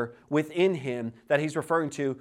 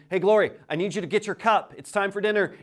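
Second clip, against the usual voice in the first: lightly acted dad calling his kid, a bit higher; father calling child; 5 semitones higher, 4 dB louder, faster than usual. Father to three-year-old at dinner time, calling. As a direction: call a child to dinner, raised pitch. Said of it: "it goes something like this".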